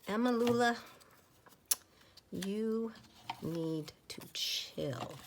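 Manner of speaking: sudden loud call, then a slow drawn-out "chill". Real, not acted. Whispering crafter calling out to Emma Lula, loud firm call. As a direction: break off the whisper and call her to settle down.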